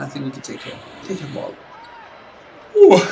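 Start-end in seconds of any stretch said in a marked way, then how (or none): 2.8-3.0 "Ooh" stretched out through a real yawn. Real, not acted. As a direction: let the word get swallowed by a yawn. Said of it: "excuse me for my yawning".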